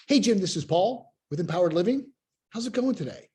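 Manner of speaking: "Hey" rising, "How's it going today?" lifted like a question; questioning tonality. Shown as a demonstration. Sales coach demoing the familiar questioning opener. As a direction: ask it, don't state it. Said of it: "the questioning tonality".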